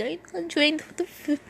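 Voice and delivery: high, plaintive question; sad. Acted. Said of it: "looked at them sadly".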